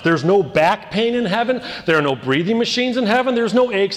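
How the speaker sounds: fervent sermon climax; preaching crescendo. Acted. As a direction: lift the congregation, full voice.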